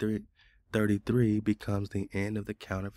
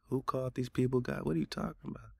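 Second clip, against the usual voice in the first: high-pitched incredulous challenge; 6 semitones higher, faster than usual. Real, not acted. Man arguing back at what the chatbot said, incredulous. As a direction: throw it back in disbelief, pitched up.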